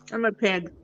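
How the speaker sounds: talking with a mouthful of food; chewing while talking. Real, not acted. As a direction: speak while chewing crackers. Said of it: "What are you eating?".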